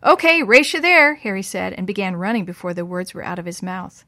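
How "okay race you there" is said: eager shout, challenging a friend to race; excited. Acted. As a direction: call it out high and bright with energy. Boys racing to the hay mow.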